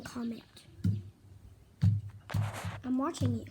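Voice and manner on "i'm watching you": quiet, teasing warning; soft playful menace; murmured I'm watching you; low mock threat. First take, low voice.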